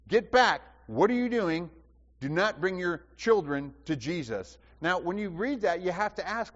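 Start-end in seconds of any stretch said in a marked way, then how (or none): 0.1-4.6 sharp rebuke. Acted. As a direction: shoo them away like an annoyed guard. Disciples rebuking parents, acted.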